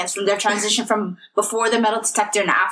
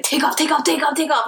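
fast repeated orders, higher and mocking; mimicking the rushed guard; 5 semitones higher than usual. Retelling the airport guard's rushed order. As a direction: rattle it off like a pushy security guard. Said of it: "saying to me so quickly and fast".

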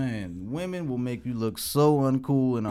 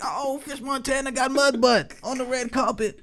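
high-pitched mock scandalized announcement; imitated gossip bloggers; 8 semitones higher than usual. Bloggers catching it on the red carpet, mock scandalized. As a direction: broadcast it like juicy gossip.

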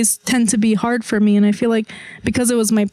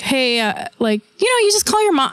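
light casual greeting; 4 semitones higher than usual. Retold or imitated. Casual check-in call to mom.

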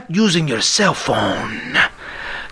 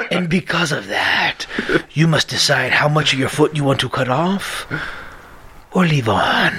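Jigsaw voice. Retold or imitated. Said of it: "ominous whisper".

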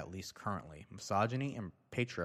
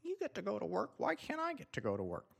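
high, mocking whine, a bit softer; mock protester whine; 13 semitones higher, 3 dB quieter than usual. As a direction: show what they sound like. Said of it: "So that's what they sound like".

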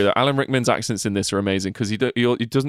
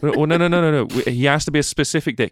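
higher, hurried string of objections; mock-panicked attempt to stop the caller; acted protest; 4 semitones higher, faster than usual. Agent stopping casting guys sending the actor, mock protest.

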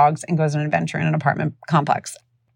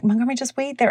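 higher-pitched imitation of a worried neighbor; imitated anxious plea; 7 semitones higher, faster than usual. Neighbor tells the boy to stay back, imitated high plea. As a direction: hold the child off, voice raised in pitch. Neighbor trying to stop child.

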